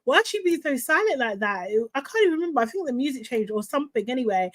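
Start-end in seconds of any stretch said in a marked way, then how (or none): 0.1-1.7 high, fast mock panic; hammed-up worried fan. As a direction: squeal it like a scared viewer. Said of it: "I was just like".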